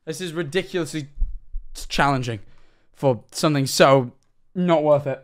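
panting between words; out of breath. Real, not acted. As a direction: gasp it out, winded. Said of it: "I'm so out of breath".

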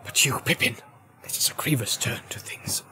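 hushed, grieving wizard; grave undertone. A narrator's reading. Wizard over the fallen hobbit, grave and hushed.

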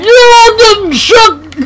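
hyped victory taunt; triumphant shout. Real, not acted. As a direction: crow it over them. Taunting the opponent.

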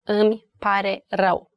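"Îmi pare rău" in three separate words. Shown as a demonstration. Teacher repeating the three words for learners, word by word. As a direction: leave a small gap after "Îmi" and after "pare". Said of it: "Three words".

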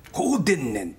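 mock Kansai merchant phrase; lightly put-on Kansai dialect; imitated Kansai accent. Shown as a demonstration. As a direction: try on a Kansai ending. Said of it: "とかな".

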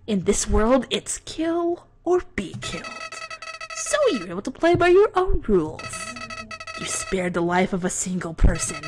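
lightly voiced sinister flower; a hint of a creepy flower gloating; Flowey villain read. Reads Flowey's speech.

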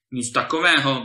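loud, brisk exclamation of refusal; crying out. A narrator's reading. Gardener's wife refuses the gentleman's withdrawal, crying out loudly. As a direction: cut in with a loud objection. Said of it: "vykřikla zahradníkova žena".

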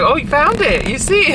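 high, loud sarcastic gotcha; mock surprise. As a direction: act amazed they found it. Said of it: "I was like".

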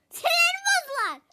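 high loud laughing; exasperated laugh. Real, not acted. Mother laughing loudly after the call, exasperated. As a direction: laugh it out, fed up.

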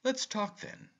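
bright, high eager invitation. A narrator's reading. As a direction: jump in eagerly. Uncle eager to talk.

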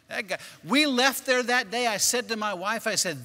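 ordinary talk

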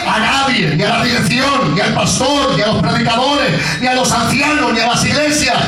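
rousing preacher's appeal; preaching exhortation. Acted. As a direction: urge the flock to look to God. Closing exhortation to the congregation.

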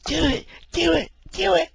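high, loud chant; cheering egging on. Retold or imitated. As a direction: egg him on like a crowd. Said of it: "somebody sitting here going".

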